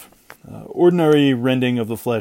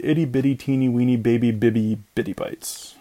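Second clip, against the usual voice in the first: put-on baby talk. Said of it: "silly baby talk".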